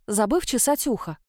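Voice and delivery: ordinary delivery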